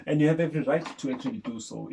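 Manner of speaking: talking fast through a laugh. Real, not acted. Co-host backs up the other host while still laughing, fast. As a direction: push the words out still laughing.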